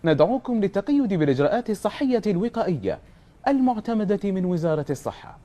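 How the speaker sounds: formal recorded announcer read; measured official message delivery; public health announcement. Shown as a demonstration. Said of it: "يلا، خلنا نسمعها".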